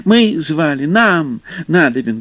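shouting. Acted. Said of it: "кричали русалки".

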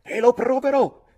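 high, loud defiant shout; enraged youth yelling; growled outburst. A narrator's reading. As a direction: hurl it out as a furious vow. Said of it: "ringhiai io".

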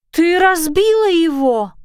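a dragon howling at her broken stone. Acted. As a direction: wail it out in dismay. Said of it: "взвыла Сису".

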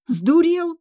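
high-pitched outraged cry; sharp, high shout of outrage; indignant yell. A narrator's reading. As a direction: yell it in disbelief, pitch leaping up. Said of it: "заорала я".

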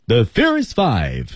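"The Furious Five" slow, with a falling tune; 降调宣告. Shown as a demonstration. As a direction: round off the roll call on a drawn-out "The Furious Five". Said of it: "整体用降调". (慢速降调读“The Furious Five”)

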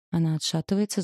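plain reading voice

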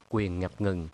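ordinary delivery, nothing marked

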